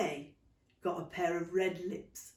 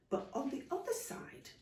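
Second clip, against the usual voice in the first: whispered; 7 semitones higher, 8 dB quieter than usual. A narrator's reading. Narration drops to whisper.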